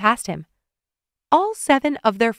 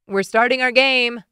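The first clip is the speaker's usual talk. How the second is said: yelling; 4 semitones higher, 3 dB louder than usual. A narrator's reading. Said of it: "Carl yelled from the other room".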